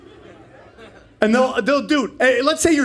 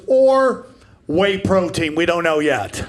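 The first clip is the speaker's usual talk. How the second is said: dead calm; 3 semitones lower, slower than usual. Retold or imitated. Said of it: "in the most calm voice ever".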